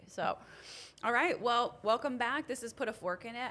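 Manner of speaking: talking around chewing gum. Real, not acted. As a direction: gum in the mouth while talking. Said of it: "I have gum in my mouth".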